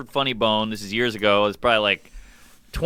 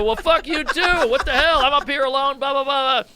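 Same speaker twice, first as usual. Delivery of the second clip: retold angry rant; 11 semitones higher than usual. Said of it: "I just got angry".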